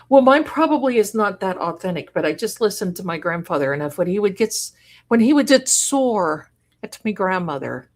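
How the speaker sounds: homemade Irish accent. Shown as a demonstration. Streamer answering a fan of her Irish accent, light Irish accent. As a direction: try an Irish accent picked up from family. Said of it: "You love the Irish accent?".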